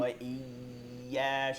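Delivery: ইয়া with the y held tight; slow, firmly held ওয়া ইয়া; firm doubled ya. Shown as a demonstration. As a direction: grip the doubled y of ইয়া before releasing. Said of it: "শক্ত করে ধরতে হবে".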